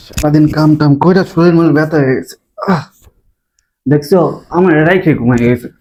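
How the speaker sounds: low, worn-out grumble; weary groaning. Acted. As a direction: sigh through aching exhaustion. Husband groaning after day of chores.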